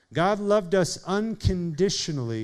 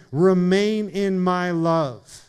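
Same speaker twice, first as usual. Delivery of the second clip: slow, each word weighted; slow earnest appeal; 5 dB louder, slower than usual. Shown as a demonstration. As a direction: invite him in, unhurried. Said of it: "Greg, Jesus is saying".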